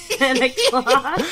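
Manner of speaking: words breaking into laughter; laughing. Real, not acted. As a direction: fight back a laugh. Laughing through phone call.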